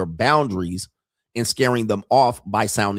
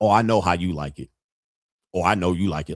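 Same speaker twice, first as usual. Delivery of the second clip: put-on playful, tongue-in-cheek teasing, lower pitch; 3 semitones lower than usual. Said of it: "I'll tongue-in-cheek get them to understand".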